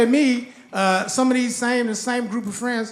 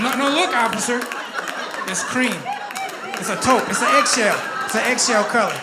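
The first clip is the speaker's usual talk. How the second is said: frantic pleading. Retold or imitated. Pleading with officer.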